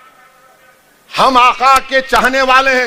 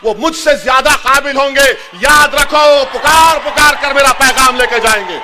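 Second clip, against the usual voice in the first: rousing shout. Acted. Rousing close of speech.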